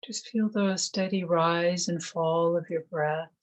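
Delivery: calm, measured meditation voice with long pauses; guided meditation. Acted. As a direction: gently guide them into stillness, one phrase at a time.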